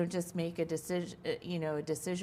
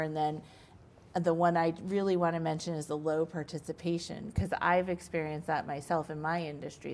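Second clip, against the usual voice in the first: ordinary talk, nothing marked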